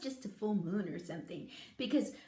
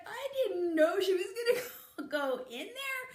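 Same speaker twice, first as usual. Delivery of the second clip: dad; 8 semitones higher, 4 dB louder than usual. Retold or imitated. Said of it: "My dad's like".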